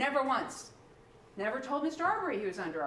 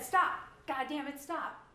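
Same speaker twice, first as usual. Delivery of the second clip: angry shouted command; 3 semitones higher, slower than usual. Retold or imitated. Prosecutor mimics the defendant yelling at the victim, angry shout. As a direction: bark the order like the armed man did. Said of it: "in that tone of voice".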